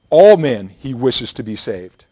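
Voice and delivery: loud, drawn-out "all" at the front of the phrase; emphatic ALL. Shown as a demonstration. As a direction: hit the word "all" hard and loud, then carry on. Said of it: "It's emphatic".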